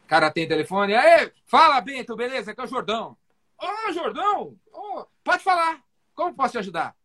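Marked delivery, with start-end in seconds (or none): 1.0-3.2 enthusiastic greeting. Shown as a demonstration. Enthusiastic cold call greeting. 3.6-7.0 eager doctor. Retold or imitated. Doctor warmly welcoming caller.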